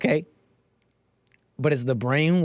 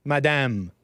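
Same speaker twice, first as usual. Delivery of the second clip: put-on French Canadian accent; slower than usual. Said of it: "like a French Canadian".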